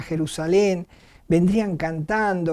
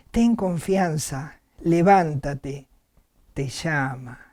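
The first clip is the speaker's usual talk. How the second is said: gentle reassurance; 4 semitones lower, slower than usual. Acted. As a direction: coax him up gently, more slowly. Crowd calls the blind man.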